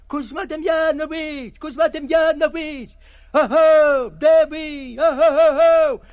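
loud, high hallooing from afar; calling out. A narrator's reading. Companions shout his name across the marsh, loud. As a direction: friends calling for a lost hunter. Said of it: "гукають".

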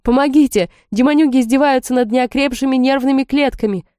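high shouted cry for help; mock yell for help. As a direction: yell it out, half in jest. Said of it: "проорать".

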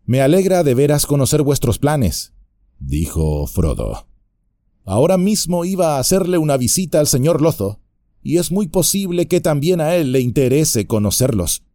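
mock innocent hobbit reply; a hint of sly hobbit; cheeky hobbit. Frodo answers coolly.

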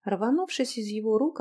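ordinary delivery, nothing marked

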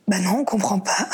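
words spoken through a laugh; en riant. Retold or imitated. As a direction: laugh while quoting the doctor. Cite le médecin en riant. (en riant en citant le médecin)

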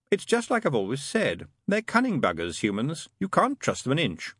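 lightly voiced demon proving his point; demon character, knowing. Demon telling the angel about humans, lightly knowing.

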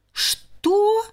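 high outraged squeal; indignant cry. Acted. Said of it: "возмущённо закричала".

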